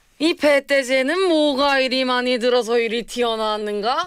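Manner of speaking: put-on North Korean dialect. Asked for a short bit of acting, doing a North Korean accent. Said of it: "북한 연기 한 소절".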